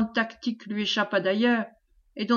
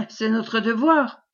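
slow, emphatic, mildly impatient retort; slower than usual. Acted. Commander answers the pleading wife, impatient. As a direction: bite of impatience on a weighty statement. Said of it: "impatienté".

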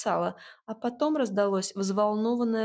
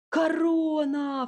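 much higher, louder and drawn-out slow cry; cried out; 7 semitones higher, 4 dB louder, much slower than usual. A narrator's reading. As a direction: gasp out in wonder. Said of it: "вскрикнули дети".

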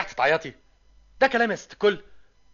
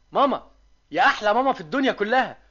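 overjoyed; 8 semitones higher, 4 dB louder than usual. Acted. Son overjoyed asking for sherbet.

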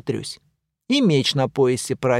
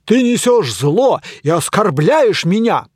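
knight's indignant accusation; 5 semitones higher, 5 dB louder than usual. Acted.

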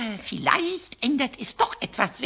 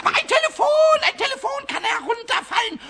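much higher and louder, bubbling with glee; eager excitement; 12 semitones higher, 4 dB louder, faster than usual. Acted. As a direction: rush out the naughty plan. Pumuckl eagerly plotting mischief.

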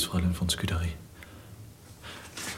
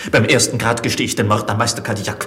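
louder and climbing higher with each degree; rising desperation; 5 semitones higher, 4 dB louder than usual. Acted. Olivier tells Scudéry what torture will force from him, rising in desperation. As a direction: build to a desperate pitch. Prisoner describes torture confessions.

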